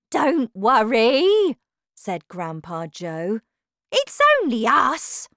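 high, slow call over the panic; loud, drawn-out storybook reassurance. A narrator's reading. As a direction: call out to settle frightened people. Grandpa Joe calming the panicked grandparents.

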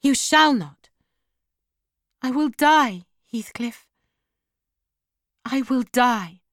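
high, pleading cry that falls away; desperate protest. A narrator's reading. Dying woman clinging to her departing lover, desperate protest.

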